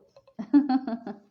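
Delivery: loud amused laugh; a sudden loud real laugh; burst of laughter. Real, not acted. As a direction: laugh out loud at your own joke. Laughs at own answer.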